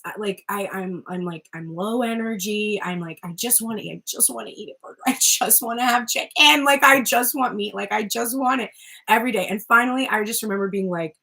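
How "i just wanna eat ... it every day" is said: craving outburst. Retold or imitated. Recalling her vegan days to herself, building craving. Voicing own past meat craving.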